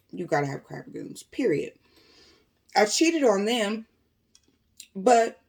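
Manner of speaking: talking through a sore throat; strained, painful throat voice. Real, not acted. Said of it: "my throat is on fire, so please bear with me".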